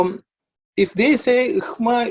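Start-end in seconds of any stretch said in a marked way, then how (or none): 1.5-2.1 "Ukhma" with h before m; throaty h leading into ma in "Ukhma"; demonstrated pronunciation. Shown as a demonstration. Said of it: "the way they pronounce".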